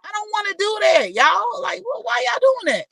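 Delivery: real exasperated high shout; upset shout. Real, not acted. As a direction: holler the protest at everyone. Complaining loudly to the audience.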